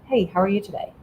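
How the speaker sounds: casual, even small-talk voice; elevator tone. Shown as a demonstration. Greeting someone on the elevator, even and casual. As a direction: greet them neutrally, like a passing stranger. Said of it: "it's called the elevator tone of voice".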